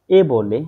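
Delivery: the German letter A said as a clear open vowel; German A demonstrated as a clean open vowel. Shown as a demonstration. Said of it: "ডয়েসরা সেটাকে আ বলে".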